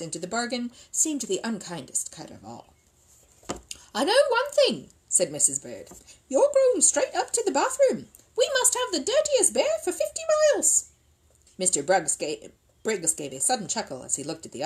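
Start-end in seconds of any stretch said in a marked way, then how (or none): 3.9-4.9 loud, high, firm declaration; stern, raised housekeeper voice; scolding. Acted. Missus Bird lays down the law. 6.3-10.9 loud, high-pitched telling-off; exasperated, raised housekeeper voice; scolding. Acted. Missus Bird scolds the dirty bear.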